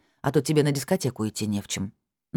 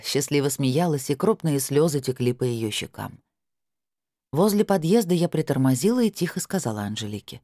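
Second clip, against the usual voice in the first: ordinary delivery, nothing marked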